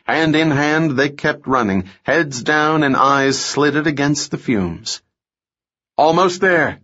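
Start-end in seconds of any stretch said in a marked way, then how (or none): 6.0-6.8 calling out. Acted. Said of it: "Sam called".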